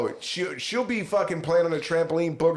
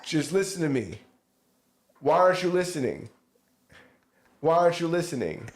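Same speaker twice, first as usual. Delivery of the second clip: mock parent nagging; 3 semitones higher than usual. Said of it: "that would say, like".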